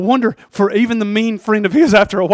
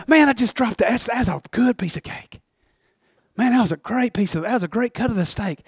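careless rich man; 5 semitones higher, 6 dB louder than usual. Acted.

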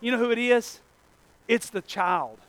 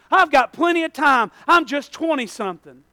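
mock excuse; 5 semitones higher, 4 dB louder than usual. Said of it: "you're lying to yourself if you say".

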